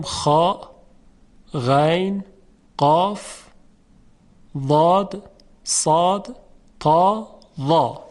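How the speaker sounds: خا غین قاف ضاد صاد تا ضا each said slowly, thick and full; heavy letters recited. Shown as a demonstration. Teacher repeating heavy letters for students, thick and slow.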